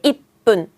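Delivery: "입분" with a stop, then tense PPUN; strong pronunciation. Shown as a demonstration. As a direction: cut off "입" and hit "분" as a hard "뿐". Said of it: "발음 세게".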